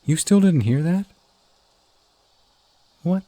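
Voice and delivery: can't believe you missed it; incredulous. Acted. To partner who heard nothing, loud disbelief.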